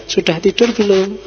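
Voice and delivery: friendly, caring question in a lilting tone; nice-sounding text message read aloud; pleasant reading. Shown as a demonstration. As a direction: ask it kindly, like checking on someone. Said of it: "Nah, itu kan enak".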